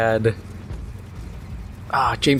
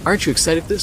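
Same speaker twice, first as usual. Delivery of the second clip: mock hype pitch; 6 semitones higher, much faster than usual. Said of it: "I was like".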